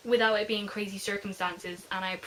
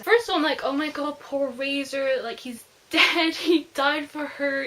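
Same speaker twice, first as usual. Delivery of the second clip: upset; 3 semitones higher, 5 dB louder than usual. Real, not acted. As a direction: voice swelling with grief for Razor. Crying over Razor's death.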